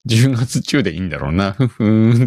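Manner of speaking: mock-complacent musing with a self-satisfied hum; smug, carefree. Streamer recalling being relaxed about the October deadline, smugly carefree. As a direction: play it lightly smug, humming it off. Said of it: "余裕こいてたのよ".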